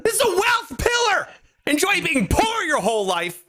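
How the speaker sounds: high, laughing mock shout; mock angry rant. Host mock-rants at the listener, laughing through a fake shout. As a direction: fake fury breaking into laughter. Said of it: "Angry guy".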